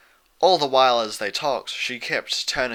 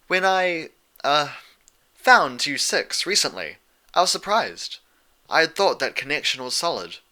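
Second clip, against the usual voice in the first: a hint of a stately royal explaining, pitched a little higher; calm measured storyteller princess, slightly raised; lightly voiced regal princess; 4 semitones higher than usual. Celestia explains history.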